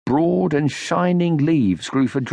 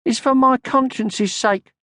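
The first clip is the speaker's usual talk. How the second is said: high, a touch conceited; a little conceited; 13 semitones higher than usual. A narrator's reading. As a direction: say it a bit self-importantly. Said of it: "a little conceitedly".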